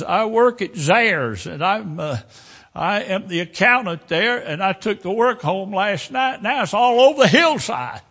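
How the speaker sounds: a shaken woman pointing out her scattered papers; frantic woman. Retold or imitated. Woman after the crash points out her papers, high and frantic.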